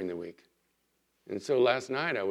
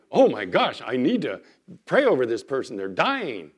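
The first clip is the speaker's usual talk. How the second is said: acted urgent plea, louder and emphatic; mock urgency; 6 dB louder than usual. Churchgoer suddenly needing to pray for someone dying, mock urgency. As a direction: play a mildly frantic plea.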